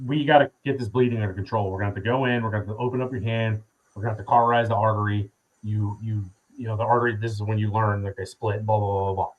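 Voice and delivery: quick, low rundown of a procedure; imitating doctors reeling off routine steps; retold medical rundown. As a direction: rattle it off, trailing into blahs.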